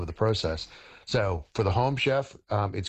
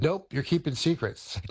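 higher and slower, a teasing accusation; mock accusing offspring; 7 semitones higher than usual. Offspring accusing the chef of hiding recipe secrets, mock-suspicious and drawn out. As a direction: drag it out like a suspicious kid catching you out.

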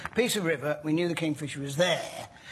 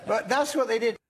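laughing; 3 semitones higher than usual. Real, not acted. Jokes about fish protesters.

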